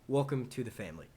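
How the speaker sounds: calmer, settled greeting; toned-down welcome. Acted. Streamer correcting his welcome to a subscriber, toned down. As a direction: rein it in and welcome politely.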